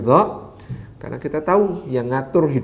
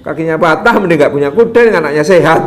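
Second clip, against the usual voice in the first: sneering neighbours; 2 semitones higher, 6 dB louder than usual. Acted. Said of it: "Kata tetangga-tetangga mencibir lagi".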